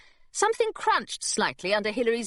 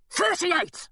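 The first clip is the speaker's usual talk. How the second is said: gargoyle voice; 9 semitones higher than usual. Acted. Gargoyle calling random numbers.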